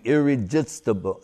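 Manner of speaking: "irresistible" with j in place of z; imitated Bengali pronunciation. Quoting his guru's insistence, "irresistible" said as "irrejistible". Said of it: "Bengalis cannot say z".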